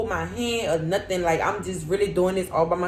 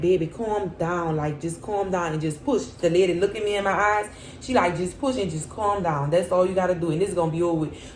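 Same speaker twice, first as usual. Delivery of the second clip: calming nurse; 3 semitones lower than usual. Retold or imitated. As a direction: soothe a scared patient. Nurse calming her in labor.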